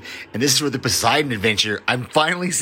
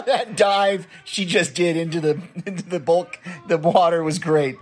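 laughing; 4 semitones higher than usual. Real, not acted. Caller laughing at a character's dive into water. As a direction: still cracking up at the dive.

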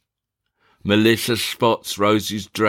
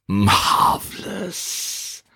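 whispered marvel; 8 semitones higher, much slower than usual. Acted. Fenton surveys through binoculars.

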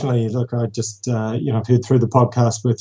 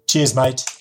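New Zealand sign-off, rising at the end; Kiwi accent. Shown as a demonstration. Caller signing off a voicemail, Kiwi accent. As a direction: say it as "cheese mite" in Kiwi. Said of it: "got the New Zealand accent down pat".

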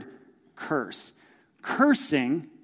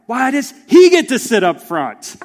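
put-on higher, louder whiny child complaining; whiny kid; 6 semitones higher, 10 dB louder than usual. Pastor imitating his kids bickering in the car, whiny and loud. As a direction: mimic a kid griping about the front seat.

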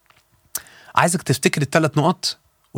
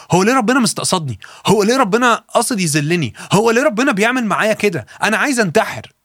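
higher-pitched, imitated anguished questioning; distressed complaint; 7 semitones higher than usual. Preacher voices a young man's desperate message, distressed complaint. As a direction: voice someone pleading to know why God targets them.

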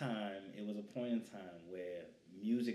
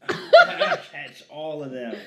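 laughing; 6 semitones higher, 21 dB louder, slower than usual. Real, not acted. Catching thrown flowers, laughing.

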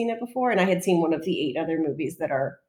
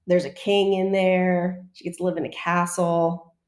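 slow and savoring; slower than usual. Real, not acted. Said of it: "I like all of that".

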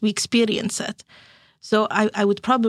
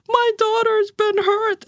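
much higher and slow, half-crying mock plea; retold distress; 11 semitones higher, slower than usual. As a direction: stretch it out like a tearful mother. Frantic mother retells her panic.

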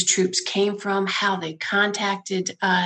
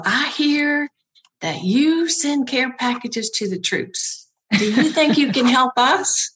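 a light imitation of a higher, sweet Southern drawl; sweet Southern accent; 5 semitones higher than usual. Soldier from Fort Hood asks for help, light Southern accent. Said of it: "with this amazingly sweet Southern accent".

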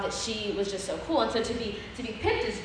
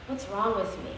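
quiet despair; 6 dB quieter than usual. Retold or imitated. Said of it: "I looked at my mom and I said".

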